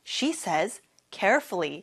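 very slow, every word clear; slow model sentence. Shown as a demonstration. Teacher showing students the sentence, very slow. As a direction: lay each word down for the class. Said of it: "그녀는 조심스럽게 말하다".

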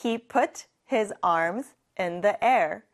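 "I put my bag down" said word by word; very slow model. Shown as a demonstration. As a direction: model the sentence slowly for repeating. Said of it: "같이 해볼게요". (따라 하도록 아주 천천히)

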